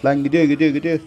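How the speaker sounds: high, loud frantic screams; panicked screaming. Real, not acted. Gamer screaming for help from Clementine. Being attacked in game.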